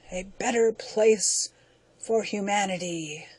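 slow, fading dying creature's reproach; dying alien. Acted. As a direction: breathe out the last accusation, slowing. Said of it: "it gasped".

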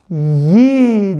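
"Yi" stretched on a long i; syllable read-out. Shown as a demonstration. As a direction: sound out "Yi" slowly for beginners. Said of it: "diye okunur değil mi". ("Yi" hecesini uzatarak okuma)

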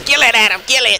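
high, loud frantic command; frantic urging. Real, not acted. Player telling partner to kill it, frantic urging. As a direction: yell urgently for help.

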